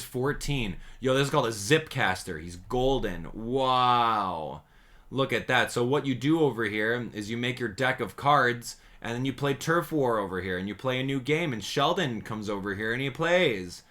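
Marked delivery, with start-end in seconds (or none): 3.3-13.8 sarcastic. Acted. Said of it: "Can you detect the sarcasm?".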